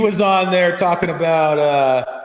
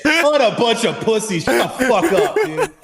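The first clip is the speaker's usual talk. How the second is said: put-on belligerent drunk; 6 semitones higher than usual. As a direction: pick a fight like a drunk. Mocking the band's singer.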